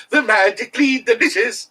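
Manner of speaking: hammed-up breakfast-ad voice; mock cereal jingle. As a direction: chirp it like a cereal commercial. Cereal ad slogan parody.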